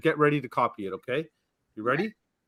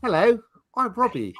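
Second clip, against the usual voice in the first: higher, put-on Indian accent; a light Indian accent, imitating the guest; imitating Robbie's Indian accent; 6 semitones higher than usual. Host copying the guest Robbie's Indian accent for the appeal. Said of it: "I'm supposed to do your accent".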